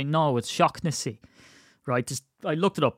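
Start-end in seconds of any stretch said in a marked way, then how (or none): 0.0-1.2 "Shaughnessy" as SHOCK-nessy, slow; slow correction with a hard K in "Shaughnessy"; correcting the pronunciation. Acted. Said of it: "And you'll say".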